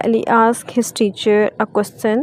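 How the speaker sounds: word by word, very slowly, "asked" clear; slow model reading. Shown as a demonstration. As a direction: dictate it slowly to students. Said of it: "इसमें आस्क्ड word जो है". (धीमे-धीमे पढ़ाना)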